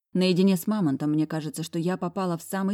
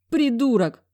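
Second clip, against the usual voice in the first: sobbed insult; 7 semitones higher, 6 dB louder, slower than usual. A narrator's reading. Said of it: "всхлипнула я".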